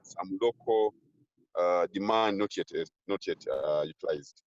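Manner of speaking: broken-up words on a failing call line; call dropping out. Real, not acted. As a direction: speak in fragments like a bad connection. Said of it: "I, I think I lost you".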